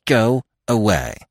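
hot, tight, gritted-teeth order; through clenched teeth. A narrator's reading. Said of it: "hotly through clenched teeth".

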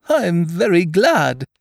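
high, slow, loud gladness; happy Pooh. A narrator's reading. Pooh pleased with his gift to Eeyore, happy. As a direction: draw it out with bear-like contentment. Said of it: "said Pooh happily".

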